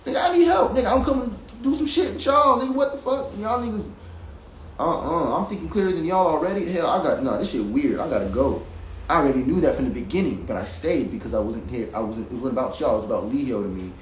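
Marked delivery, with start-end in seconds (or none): 0.1-8.6 much higher pitched, shouting for help; yelling at them in frustration before walking out; furious yell that fades off at the end; angry outburst. Retold or imitated. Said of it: "I was mad".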